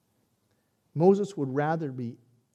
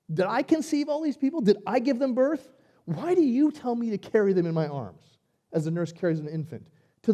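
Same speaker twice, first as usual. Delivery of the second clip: anguished plea; 4 semitones higher than usual. Acted. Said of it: "He asked the Lord".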